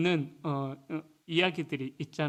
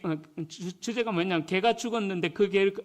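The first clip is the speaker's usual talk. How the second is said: usual speaking voice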